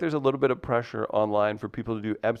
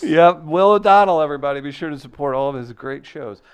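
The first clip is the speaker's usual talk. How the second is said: loud, raised show-closer voice, easing off; laughing into a pitched-up announcer outro; mock emcee send-off; 5 semitones higher, 7 dB louder than usual. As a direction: send the act off like a club host. Mock send-off after failed impression.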